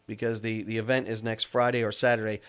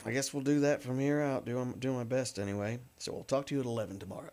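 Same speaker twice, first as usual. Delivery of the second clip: odd low voice; 7 dB quieter, faster than usual. Real, not acted. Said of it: "I don't know why I'm talking like this".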